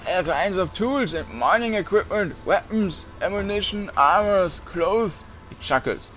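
a hint of a raspy, thinning old voice; raspy shopkeeper voice. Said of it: "It has an unhealthy rasp to it".

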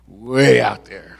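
"way" stretched out long, then "out there"; drawn-out emphasis. Real, not acted. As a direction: stretch the word "way" to show distance. Stresses how remote home is.

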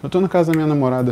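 fast, high rushed answer; rushed panic. Retold or imitated. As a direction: rush it out in a panic. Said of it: "ele liga desesperado". (amigo nervoso falando rápido e agudo)

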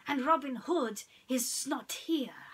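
breathy snake whisper; hissed whisper. Acted. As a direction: hiss it secretly. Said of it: "hissed Hiss".

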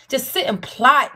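slow, stressed disgust; slow emphasis. Real, not acted. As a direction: drag out each word.

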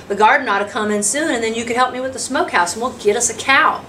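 a hint of an eager country father, quick phrases; quick, lilting homesteader with an offer; lightly voiced homesteader. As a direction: lightly act a folksy man pitching an idea. Voices Tobias making an offer.

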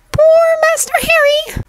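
very high elf voice with a touch of sorrow; a tiny house-elf pitying his master; Dobby, sadly. Acted. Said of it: "Dobby said sadly".

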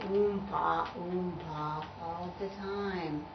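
dull oom-pa. Acted. Tuba mimics his dull part.

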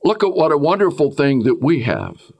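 high, gushing churchgoer voice; mock pious worshipper. Preacher mocking a deceived worshipper, high and gushing. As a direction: gush like a fooled believer. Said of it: "and say".

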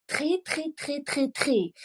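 "три" repeated high, rolling the r; три drill. Shown as a demonstration. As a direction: pitch "три" up and roll the r hard. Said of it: "Встали і почали". (вимова «три» з розкотистим «р»)

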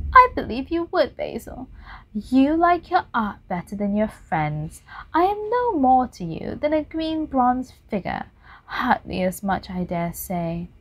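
lightly voiced sulky reproach; a hint of jealous hurt; hurt Dorian. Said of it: "He seemed quite angry".

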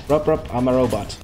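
a hint of a robot voice, choppy; lightly voiced short-circuiting robot; mock robot. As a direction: play a glitching robot lightly. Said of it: "this is what happens when I get angry".

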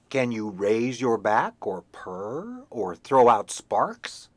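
slow, different lofty cat voice; tomcat voice. Acted. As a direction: look down your nose as the cat. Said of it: "said the tomcat".

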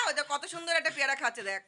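hushed so the monkey stays; hushed aside. Real, not acted. Quiet aside while watching.

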